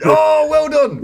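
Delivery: high, loud burst of congratulation; excited cheer. Real, not acted. Host sees the right answer come in, excited cheer. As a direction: cry out in delighted triumph.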